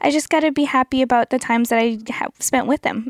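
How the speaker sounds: put-on sweetly wise little girl. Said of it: "And she was like".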